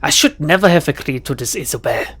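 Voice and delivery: put-on groaning in a German accent; lightly put-on German accent; soft German accent. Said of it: "The woman has a soft German accent".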